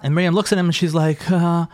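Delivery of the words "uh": mock agreement, pitched high; retold reluctant yes, put on the spot. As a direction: play someone cornered into sounding keen. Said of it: "like, put on the spot".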